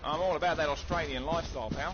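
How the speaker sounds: put-on Aussie accent, not yelled; Australian accent. Shown as a demonstration. Gamer asked by teammate to talk Australian, Australian accent. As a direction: play up a mock Australian accent. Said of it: "Yell at me in Australian".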